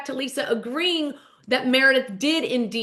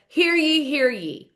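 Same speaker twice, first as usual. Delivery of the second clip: higher, sing-out mock proclamation; town crier; 5 semitones higher, slower than usual. Bronwyn calls court into session, proclaiming like a crier. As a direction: call court to order, first call high. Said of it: "calls court into session".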